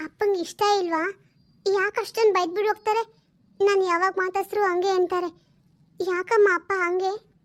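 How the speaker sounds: a lightly voiced small girl, sulking; little girl. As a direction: play the daughter whining for new clothes. (ಹಠ ಮಾಡುವ ಪುಟ್ಟ ಹುಡುಗಿಯ ಧ್ವನಿ)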